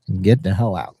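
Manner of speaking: high, urgent warning to flee; urgent mock warning. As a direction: urge them to run, pitched high. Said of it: "It's like".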